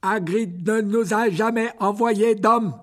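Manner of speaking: high, slow, loud creature voice; old spider. Acted. Aragog answers Harry warily, high and slow. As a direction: speak slowly as a giant ancient spider. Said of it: "Aragog resta un instant silencieux".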